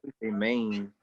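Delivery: "main" with a long ay vowel for man; drawled local MAN. Shown as a demonstration. Telling friends how locals say man, "main" with a long ay. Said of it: "you don't say man".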